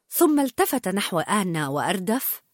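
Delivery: ordinary delivery, nothing marked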